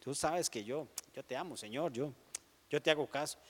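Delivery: soft, hurried mock protest of love; a touch of flustered Peter, quiet and quick. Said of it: "Pedro era así medio alteradillo".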